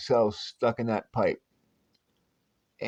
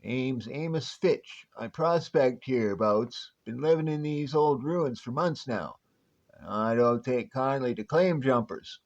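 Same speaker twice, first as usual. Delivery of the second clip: a hint of a crusty old Western prospector accent; lightly drawled old-timer Western accent. Old prospector accent scaring off visitors to his town. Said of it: "Your accent".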